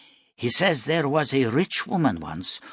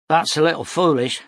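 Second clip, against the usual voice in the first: tough and loud; 7 semitones higher, 6 dB louder than usual. Acted. Mother scolds the stranger.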